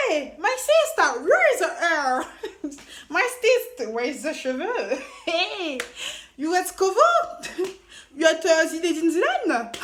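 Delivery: loud, slow, laughing heckles in broken English; mocking crowd, laughing. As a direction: tease her like a jeering crowd at the beach. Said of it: "Tout le monde était là".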